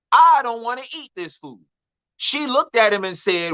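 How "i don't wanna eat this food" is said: a hint of a whiny little boy, higher; complaining child. Boy refusing his mama's food, lightly imitated child's complaint. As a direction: lightly voice a kid refusing dinner.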